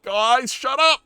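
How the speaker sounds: high, loud, furious outburst; yelling at teammates mid-scene, fed up; exasperated yell. Retold or imitated. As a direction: snap at the group to shut up, fast. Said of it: "And I'm like".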